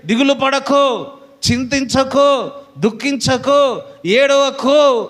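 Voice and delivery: slow, each command drawn out and lifted; earnest slow pleading; slow exhortation. Acted. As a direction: lay each word down slowly, building to the last. Quoting God's comfort.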